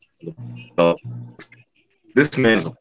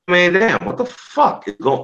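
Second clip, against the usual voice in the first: raw, pained exclamation, higher and louder; emotional outburst; 12 semitones higher, 4 dB louder than usual. Real, not acted. A man overcome by anger about the killings, crying out. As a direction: it bursts out of him, overcome. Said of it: "I'm getting a little emotional here".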